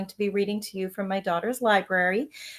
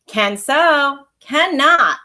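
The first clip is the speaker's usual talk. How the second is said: louder, higher back-and-forth squabble; kids' quarrel; 6 semitones higher, 11 dB louder, much slower than usual. Acted. Brother and sister squabbling over berries, raised voices. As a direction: bicker like kids.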